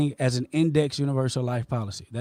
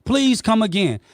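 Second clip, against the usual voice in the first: heated rebuttal; 2 semitones higher, 4 dB louder than usual. Real, not acted. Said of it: "raising my voice with you".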